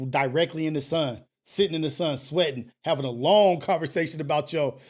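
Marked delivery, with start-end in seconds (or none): 2.8-4.8 words broken by laughter; amused recounting of dad lectures; laughing. Real, not acted. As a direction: laugh through the end of it. Laughing through the description.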